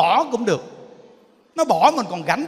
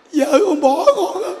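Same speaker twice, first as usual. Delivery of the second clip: high, loud comic wail of a dumped husband; hammed-up tearful whine; mock crying; 6 semitones higher, 5 dB louder than usual. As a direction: imitate a man blubbering his complaint. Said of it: "tự nhiên khóc kỳ cục ấy".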